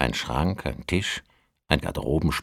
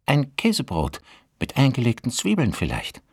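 landlady voice; 9 semitones higher than usual. Acted. Landlady offers food.

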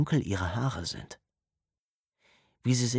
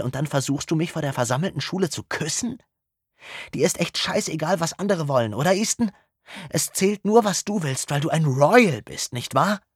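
put-on a higher girl's voice rising to a loud, furious peak; furious tirade; 6 semitones higher, 4 dB louder than usual. A narrator's reading. Hartley berates Easton in front of the whole school, building to furious and loud. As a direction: build from a tight reproach to a loud furious accusation.

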